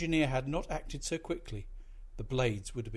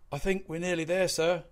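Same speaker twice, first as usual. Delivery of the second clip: out of breath from hauling; panting; 6 semitones higher, 5 dB louder than usual. A narrator's reading. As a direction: gasp it out between breaths. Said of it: "the second mate panted".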